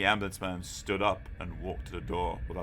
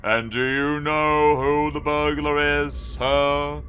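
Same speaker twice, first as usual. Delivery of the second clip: stern policeman; 6 semitones higher, 8 dB louder, slower than usual. A narrator's reading. Policeman questions Augustus.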